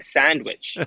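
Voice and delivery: "Sandwich" with a soft, flattened a. Shown as a demonstration. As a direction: say "Sandwich" with that West Coast soft a. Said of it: "instead of saying sandwich, I'll be like".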